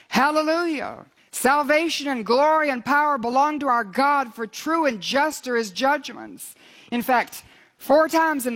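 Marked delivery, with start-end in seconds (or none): 0.1-6.6 exultant proclamation. Acted. Heaven's multitude praising God for his judgments, exultant proclamation. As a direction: proclaim it like heaven's multitude, without a full shout. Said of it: "roar of a great multitude in heaven shouting".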